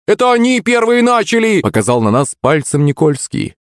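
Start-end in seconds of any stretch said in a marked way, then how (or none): 0.1-1.6 put-on whiny accusing boy. Никольский complains to teacher.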